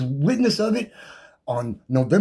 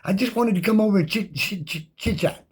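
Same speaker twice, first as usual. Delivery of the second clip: mock sweet, overly friendly greeting, pitched higher; nice attitude; 4 semitones higher than usual. Deputy greeting the homeowner at his door, in mock sweet politeness. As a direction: play the fake-polite visitor who is a little too cheerful. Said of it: "come up with a really nice attitude and say".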